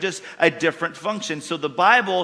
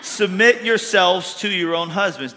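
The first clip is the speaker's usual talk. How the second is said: emphatic reading; 3 semitones higher, 3 dB louder than usual. Shown as a demonstration. Rereads the verse after dropped take.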